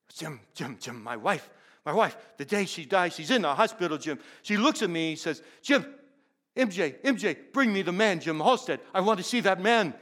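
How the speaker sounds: urgent plea in an imitated Indian accent. Grieving husband telling of his dying wife's request, imitated Indian accent. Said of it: "M J had a distinct accent".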